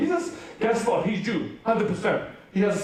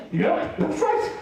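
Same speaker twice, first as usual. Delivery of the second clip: drawn-out, lifted yep; slow, knowing confirmation to the crowd; playful self-answer; 6 semitones higher, much slower than usual. Pretend. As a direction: answer your own question with a wink in the voice. Answers his own question playfully.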